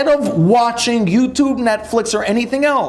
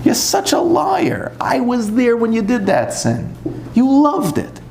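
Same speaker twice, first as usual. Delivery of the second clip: Satan accusing. Retold or imitated. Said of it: "he's like".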